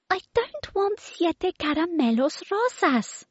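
put-on very high, demanding little-girl voice; baby voice. Baby demands yummy food from the children, very high and bossy. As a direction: play a bossy toddler ordering food. Baby's voice.

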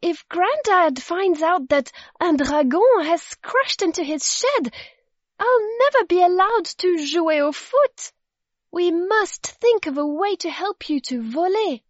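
put-on high, urgent child's voice; worried girl. A narrator's reading. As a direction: fret aloud as the storybook girl. Worried Zoe pleads with dragon.

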